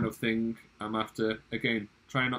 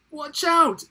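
hammed-up high, loud shriek of warning; theatrical panicked yell; 11 dB louder than usual. A narrator's reading. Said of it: "the dentist shrieked".

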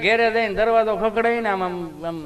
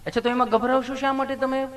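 higher, softer nurse voice coaxing; lightly voiced caring nurse; sweet nurse; 6 semitones higher, 4 dB quieter than usual. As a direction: coax him like a kind nurse. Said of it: "નર્સબેને એવું પ્રેમથી પૂછ્યું".

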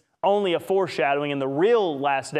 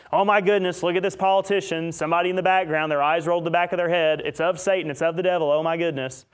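mock alarmed gossip; 2 semitones higher than usual. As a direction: play a scandalised viewer pointing at a video. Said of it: "I know y'all have seen videos like that".

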